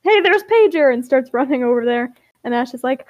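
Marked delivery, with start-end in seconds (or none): 0.0-0.9 raised, louder excited call; excited gasp. A narrator's reading. Grape spots Pager by the tennis courts, excited call. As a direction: call out on spotting someone. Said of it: "gasps and says".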